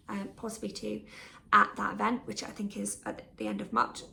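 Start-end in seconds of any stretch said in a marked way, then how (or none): 1.5-4.0 hiccuping mid-sentence; talking through hiccups. Real, not acted. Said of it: "I've got hiccups now".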